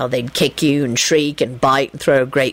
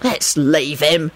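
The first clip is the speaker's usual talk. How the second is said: decisive; 3 semitones lower, much slower than usual. Acted. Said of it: "Sirius said decisively".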